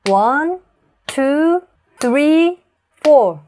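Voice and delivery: "One", "two", "three", "four" each shouted high and loud on a clap; clapped stressed count. Shown as a demonstration. Teacher counting with claps, loud stressed beats. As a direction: count to a clap, hitting every number hard. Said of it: "한 번만 더".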